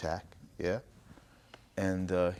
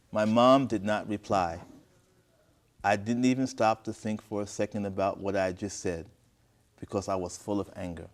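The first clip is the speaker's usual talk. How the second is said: story narration. A narrator's reading. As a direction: read it out clearly with measured pauses. Reads the story aloud.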